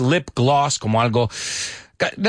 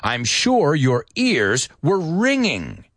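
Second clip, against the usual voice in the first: slow model answer; 4 semitones higher, slower than usual. Shown as a demonstration. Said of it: "the correct answer was".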